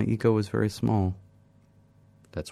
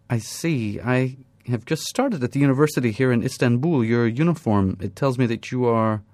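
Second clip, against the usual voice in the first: a touch higher, lightly voiced young woman; 5 semitones higher, 4 dB louder than usual. Young woman reads the narrator's uniform, lightly raised and curious. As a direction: gently voice a curious student.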